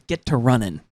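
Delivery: put-on low-pitched touch of country accent. Retelling her send-off to the little girl, country accent. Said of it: "country accent".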